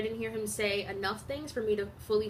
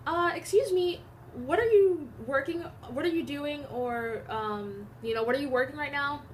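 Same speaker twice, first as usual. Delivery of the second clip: retold call to a coworker, pitched up; 4 semitones higher than usual. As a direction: call out to the counter lady. Quoting Keisha calling out.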